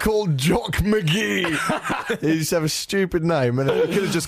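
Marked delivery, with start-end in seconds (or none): 0.0-2.2 much higher, slow put-on caller voice; hammed-up fake agent on the phone; Jock McGee. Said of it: "phoned up lap dancing clubs and goes".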